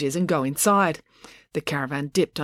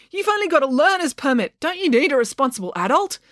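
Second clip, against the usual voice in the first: high-pitched anxious objection; alarmed cry; 9 semitones higher than usual. A narrator's reading. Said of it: "cried Joe".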